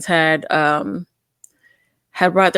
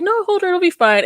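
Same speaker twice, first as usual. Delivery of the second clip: mock cousin urging; 10 semitones higher than usual.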